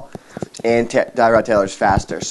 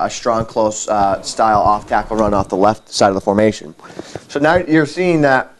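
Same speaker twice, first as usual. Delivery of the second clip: chewing gum. Real, not acted. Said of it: "Sorry, I'm chewing gum".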